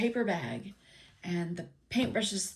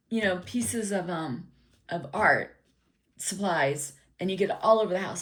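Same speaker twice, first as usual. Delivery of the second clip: louder, firm fatherly warning; stern warning; 2 semitones higher, 6 dB louder than usual. Retold or imitated. Dad warning son not to buy a bunch of crap, louder and firm. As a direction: lay down the law to the kid.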